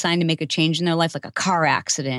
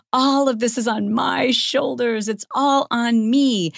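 slow, put-upon sigh of a voice; slow martyr's lament; self-pitying; 7 semitones higher, slower than usual. Retold or imitated. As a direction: lay it on thick, poor me.

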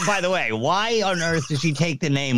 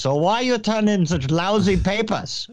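higher-pitched mock Asian-accented professor; 6 semitones higher than usual. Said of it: "where did I learn an Asian accent?".

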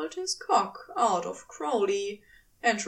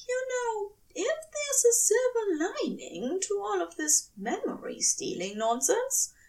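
high, hushed devoted angel voice; tender angel; 10 semitones higher than usual. A narrator's reading. Angel vowing to his lover, high and hushed.

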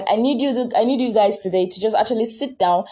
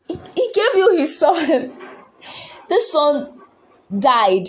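passionate outcry; 7 semitones higher, slower than usual. Real, not acted. Preacher marvelling at God's sacrifice, high passionate cry. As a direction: burst out in amazement at the sacrifice.

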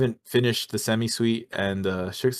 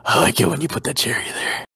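mock food ecstasy. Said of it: "Randy Marsh shit".

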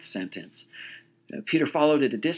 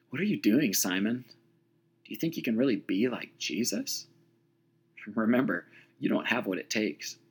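soft, undermining counselor voice; lightly voiced counselor sowing doubt; 4 dB quieter than usual. Peter's inner doubt talks down to him, soft. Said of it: "sounded an awful lot like his academic counselor".

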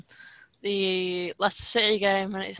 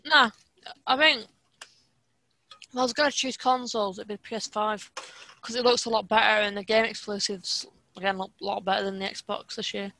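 mouth full. Real, not acted. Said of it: "I'm mid-eating Pringles and I'm mid-talking".

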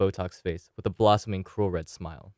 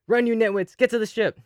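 much higher, strained shout from under the attacker; gasped shout; 13 semitones higher, 3 dB louder than usual. Acted. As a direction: push the warning out pinned down. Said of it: "gasped out a few words".

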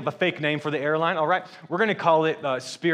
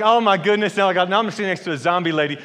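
louder, higher mock panic; freaking out; 3 semitones higher, 5 dB louder, faster than usual. Boy seated next to a zombie lady, retold freak-out. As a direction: retell a child's freak-out with rushed alarm. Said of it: "I'm freaking out".

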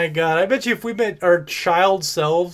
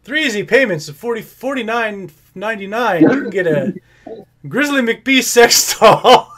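home shopping host; 4 semitones higher, 4 dB louder than usual. Pretend. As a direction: sell it like a TV ad, laughing. Infomercial pitch.

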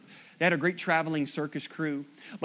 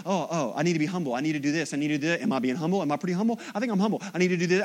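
mock fretful muttering, fast at first; anxious self-talk; much faster than usual. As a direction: fret over yourself in a hurry. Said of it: "You're gonna go home and go".

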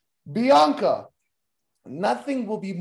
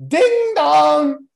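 mocking; 7 semitones higher, 6 dB louder than usual. Mocking wrestler's gimmick.

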